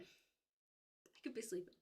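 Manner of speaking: sleepy murmur, trailing away; dreamy drawn-out murmur. Shown as a demonstration. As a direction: let it drift off like falling asleep. Repeated softly, slowly.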